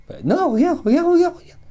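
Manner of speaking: high, eager excited calling. Real, not acted. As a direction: urgently point it out. Rods moving, eager to show.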